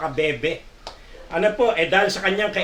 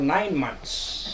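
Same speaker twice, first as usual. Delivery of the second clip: laughing punchline; 6 semitones lower, 6 dB quieter than usual. Retold or imitated.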